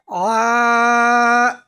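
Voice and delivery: আ from the middle of the throat, pressed and held; throaty ain; pressed ain sound. Shown as a demonstration. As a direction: squeeze the আ from the throat. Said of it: "এখানে আইনটা একটু চাপতে হবে".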